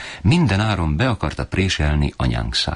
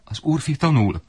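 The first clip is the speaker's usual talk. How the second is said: defending mother; 11 semitones higher than usual. A narrator's reading. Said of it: "védelmezett anyám".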